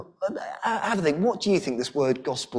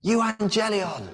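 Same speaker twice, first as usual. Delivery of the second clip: "Euangelion" called out slowly and much higher, each syllable drawn out; messenger's cry; 7 semitones higher, slower than usual. Acted. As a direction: cry the word "Euangelion" like a distant messenger bringing news. Messenger's cry reaching the city.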